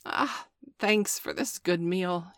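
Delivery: slow, relishing jackal; smacking lips. Acted. Jackal thanks the wolves for the bone, relishing. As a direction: savour each word while licking lips. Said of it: "he said, licking his lips".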